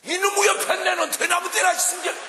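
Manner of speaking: loud high furious husband yelling; angry shout. Retold or imitated. Husband shouting back at his wife instead of apologizing. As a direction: bark back at the wife in a rage.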